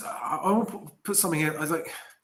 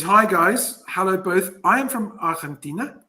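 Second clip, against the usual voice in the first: slightly raised, rough attempt at a Spanish accent; terrible Spanish accent; 4 semitones higher, 5 dB louder than usual. Reading an Argentinian viewer's greeting, amateur Spanish accent. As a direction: read it in a badly faked Spanish accent. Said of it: "sorry for my terrible Spanish accent".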